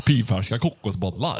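put-on Skövde dialect; Västergötland accent. Shown as a demonstration. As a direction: draw it out in Västgötska. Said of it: "Västgötska är ju nära oss".

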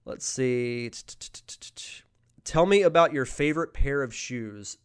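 drowsy, medicated voice; sedated. Real, not acted. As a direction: sound heavily medicated. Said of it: "Sorry, I'm heavily medicated".

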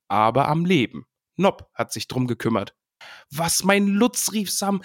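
lightly voiced characters. Reading Sam's joy about Lutz, lightly voiced. Reading Butterblüm and Sam lines.

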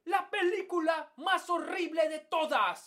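hyped-up movie TikToker voice; overselling a horror film to viewers; clickbait video narrator. Retold or imitated. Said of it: "si tienes gente que dice".

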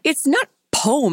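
laughing while correcting a word. Real, not acted. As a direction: giggle through the correction. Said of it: "It's not like P O M E".

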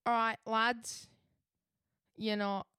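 attempted South London accent, drawn out; Eggsy. Reluctant co-host opens the sign-off as Eggsy, attempted South London accent. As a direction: have a halting go at South London. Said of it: "I can't do a South London accent".

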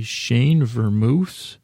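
slow, questioning read of "Shane Vermouth" with a rising end; puzzled reading. Real, not acted. Deciphering his own messy notes, puzzled. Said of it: "And what does this say?".

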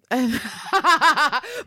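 high, put-on cackle; hammed-up scornful laughter; mock incredulous laugh. Imitating Anne laughing off Washington's advice, mock cackle.

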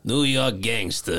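mimicked New York gangster. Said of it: "So I'd like to mimic Marg's voice".

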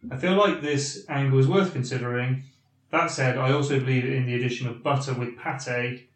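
measured read-aloud of a listener's email; deliberate, articulate email reading; slow, clear reading. Real, not acted. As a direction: read the letter out carefully and clearly. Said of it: "I'll read it slowly, yeah, and hopefully clearly".

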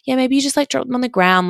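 airy mock-sweet bestie brushing it off; bestie's voice.

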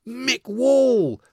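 a singer's greeting. Retold or imitated. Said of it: "he goes".

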